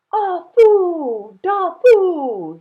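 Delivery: high, loud, relieved cry of names. Acted. Grandfather finding the twins, crying out in relief. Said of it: "he cried".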